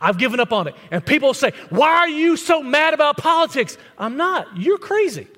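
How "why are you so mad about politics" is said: mock accusing. Quoting people.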